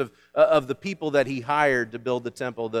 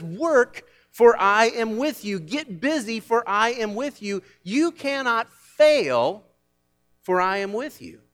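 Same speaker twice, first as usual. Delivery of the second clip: rousing command; 7 semitones higher, slower than usual. Acted. Preacher voicing God's command.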